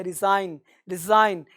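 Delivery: रिजाइन with no G before the N; silent G. Shown as a demonstration. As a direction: model रिजाइन word by word, leaving out the G. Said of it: "ये जी silent है".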